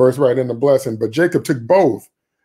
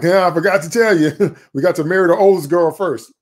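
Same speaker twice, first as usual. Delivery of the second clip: laughing sly reply; 4 semitones higher, 3 dB louder than usual. Retold or imitated. Laban's trick, laughing reply.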